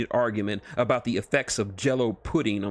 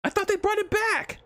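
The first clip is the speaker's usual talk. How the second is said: much higher, complaining tone; whiny. Acted. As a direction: keep the whine going. Wade still whining.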